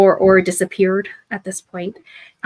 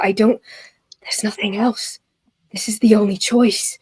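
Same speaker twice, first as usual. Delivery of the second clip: desperate whisper. Acted. Desperate figure whispers to himself.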